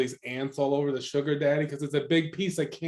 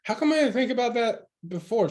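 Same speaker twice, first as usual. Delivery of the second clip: surprised; 10 semitones higher, 3 dB louder than usual. Retold or imitated. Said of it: "I was like".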